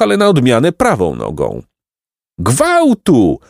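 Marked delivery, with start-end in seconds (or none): 2.4-3.4 high-pitched cry of alarm; mild donkey-like bellow. A narrator's reading. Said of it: "ryknęli chłopcy oślim rykiem". (wysoki ryk wołający o ratunek)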